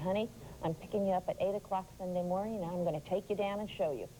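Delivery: ordinary talk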